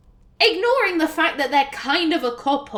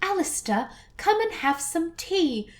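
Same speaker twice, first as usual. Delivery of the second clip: put-on posh accent, higher and lightly spoken; posher accent; 4 semitones higher, 4 dB quieter than usual. Player imitating how posh the game's Goldana sounds in The Fade, posher accent. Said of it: "posher, for want of a better word".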